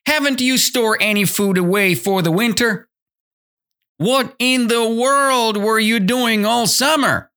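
high-pitched, disbelieving questions; incredulous questioning. Acted. Ants question the grasshopper about winter food, high incredulous voice. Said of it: "they were asking, right?".

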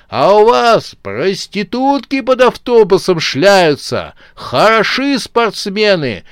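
high, loud, slow indignant rant. A narrator's reading. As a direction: let it all spill out, furious. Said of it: "Но Дашу уже понесло". (Даша в сердцах отчитывает парней)

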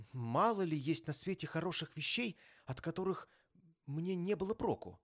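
high-pitched, heartfelt reply; earnest young nephew. A narrator's reading. Nephew defending Christmas to his uncle, earnest. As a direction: answer with sincere, lifted voice.

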